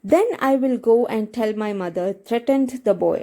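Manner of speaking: reads the English text slowly, word by word; slow text reading. Acted. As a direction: spell it out slowly for the students. (പതുക്കെ വായിക്കുന്ന പാഠം)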